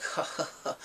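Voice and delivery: spelt-out taunting "ha ha ha"; mock villain laugh. Kidnapper on the PA system, mock villain laugh. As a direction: imitate a gloating villain's laugh.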